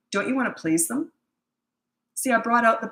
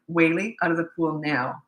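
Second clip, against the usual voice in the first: calm command; 2 semitones lower than usual. Retold or imitated. Mom ordering a naughty boy from the pool, calm and firm. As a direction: state it once, no fuss. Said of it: "very calmly".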